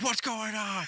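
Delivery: high, surprised voice for Chrissy; Chrissy startled, asked mid-rush; quoting Chrissy. Retold or imitated. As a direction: mimic a sleepy girlfriend asking what's up. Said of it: "Chris is like".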